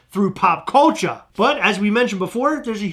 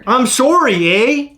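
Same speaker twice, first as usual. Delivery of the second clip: higher, "eh?" lifted like a question mark; "sorry" Canadian-style, then a high, asking "eh?"; 4 semitones higher, slower than usual. Shown as a demonstration. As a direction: demonstrate "I'm sorry, eh?" with a questioning "eh". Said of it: "A's like the question mark at the end".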